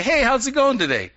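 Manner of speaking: friendly greeting. Retold or imitated. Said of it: "look at a person and say".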